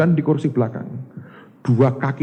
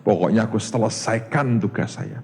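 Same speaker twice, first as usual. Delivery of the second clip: calming self-talk; 8 semitones lower, 6 dB quieter than usual. Retold or imitated. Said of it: "Tak pikir".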